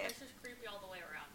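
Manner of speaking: talking through a mouthful; eating while speaking; chewing while talking. Real, not acted. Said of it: "Forgive my eating sounds".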